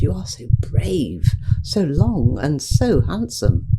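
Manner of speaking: hushed and slow, breathing out the praise; admiring whisper. Acted. Quilt tells the brave hosepipe he's handsome, whispered admiringly. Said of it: "she said".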